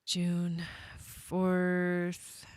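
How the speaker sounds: ordinary delivery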